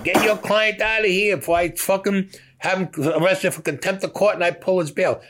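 a retold furious judge, voice pitched well up; mock angry judge. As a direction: bark it like a fed-up judge. Judge yelling at the lawyer.

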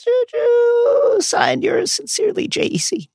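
hushed dramatic letter reading; mock solemn letter. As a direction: read it like a doomed last note. Parodies Regulus's letter.

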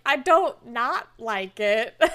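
slow, halting awkward hedge; deer in headlights. Retold or imitated. He is put on the spot by her question, awkward. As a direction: mildly caught off guard, dragging it out. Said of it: "definitely a little deer in the headlights".

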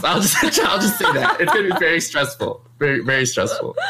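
giggling through the lines; laughing. Real, not acted. Streamer admitting meetups are stressful, giggling. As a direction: let the laugh break the words up.

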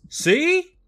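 very high, loud gotcha; hammed-up point-proving cry; triumphant dad. Dad points out his zombie-like son to Mom, hammed-up vindication. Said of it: "So Dad says".

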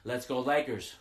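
half-yelled rallying cheer; retold yell. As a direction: call it out like a retold fan yell. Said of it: "I was yelling".

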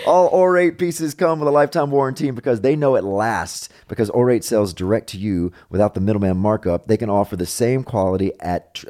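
upbeat opening, then easy sponsor pitch; chatty host-read commercial; podcast ad read. Acted. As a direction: read sponsor copy to the listeners.

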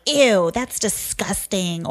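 slow, drawn-out mock disgust; dramatic kid. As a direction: imitate an over-dramatic grossed-out kid. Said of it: "they're so dramatic in everything".

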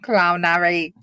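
flat robot monotone. Acted. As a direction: say it like a machine. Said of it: "say that in a robot voice".

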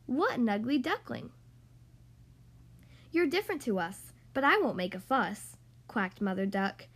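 lively, sing-song storybook reading; reading to children. Acted. Podcast host reading The Ugly Duckling to young kids, animated storytelling. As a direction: read it like a bedtime picture book for little kids. Reads picture book to kids.

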